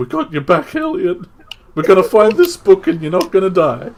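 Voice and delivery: very loud, high, forced trying-to-sound-cool voice. Playing a little brother reassuring his big brother Elliot, trying to act cool. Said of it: "little brother trying to be cool".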